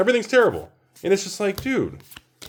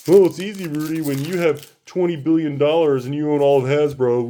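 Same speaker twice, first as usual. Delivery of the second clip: a lightly voiced snarky heckler, a bit louder at the start; mock critic; 3 dB louder than usual. Imagined viewer sneering back at the box opener, mild mock snark. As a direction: toss back a sarcastic retort like a heckler.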